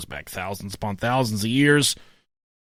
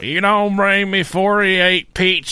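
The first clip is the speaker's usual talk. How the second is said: mock demanding diner; 3 semitones higher, 3 dB louder, slower than usual. Demanding diner at Olive Garden.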